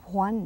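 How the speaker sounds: Juan with a light, soft j, almost wahn; Juan, soft breathy j. Shown as a demonstration. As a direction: say Juan gently, hwan barely breathed. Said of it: "they may say Juan".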